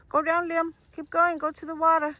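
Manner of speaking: marathon cheering. Real, not acted. Cheering Liam on to the water.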